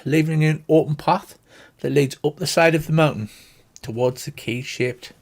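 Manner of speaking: ordinary talk, nothing marked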